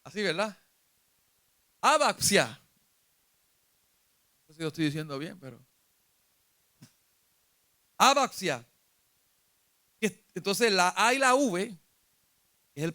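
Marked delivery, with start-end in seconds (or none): 1.8-2.5 "Abaxia" punched on the opening A; stress on first A. Shown as a demonstration. Preacher retries the Greek word, firm stress on the A of "Abaxia". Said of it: "es con acento en la A". 8.0-8.6 "Abaxia" with a firm first A; stress on first A. Shown as a demonstration. Preacher repeats the Greek word, stressing the A of "Abaxia". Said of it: "es con acento en la A".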